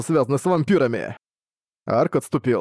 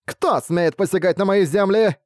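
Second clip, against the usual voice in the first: mock lordly voice; 6 semitones higher, slower than usual. A narrator's reading. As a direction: demand it like a vampire lord. Master's voice from bush.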